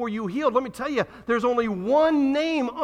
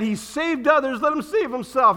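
mocking crowd; 4 semitones higher, 4 dB louder than usual. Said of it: "who said".

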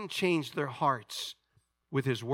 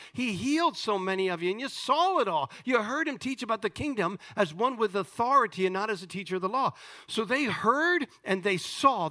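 raised, emphatic sermon delivery; forceful preaching; 6 semitones higher than usual. Acted. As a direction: preach it out, punching key words.

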